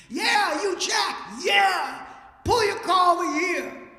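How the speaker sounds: high, loud call down the road; shouting across distance. Retold or imitated. Jack shouting to the driver to pull over, loud high holler. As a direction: holler it to someone far away.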